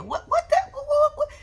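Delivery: high, loud incredulous what what what; stunned and outraged, pitch shooting up; shocked disbelief. Real, not acted. Reacting to Jerry on the show, high shocked outcry.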